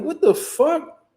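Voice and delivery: high, slow, drawn-out disbelief; mock exasperation. Driver fed up with the officer, mock exasperation. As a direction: stretch it out, pitch way up. Retold exasperation at ticket delay.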